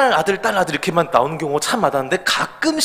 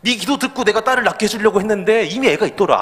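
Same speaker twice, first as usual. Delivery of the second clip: laughing punchline; 6 semitones higher than usual. Retold or imitated. Retelling God's punchline.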